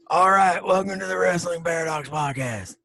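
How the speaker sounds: hyped podcast opener; announcer voice. Pretend. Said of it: "Oh, Jake, that's you".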